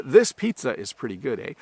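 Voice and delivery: final "eh" turning the statement into a question. Shown as a demonstration. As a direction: tack on "eh" to win agreement. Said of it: "adding a because I want you to agree".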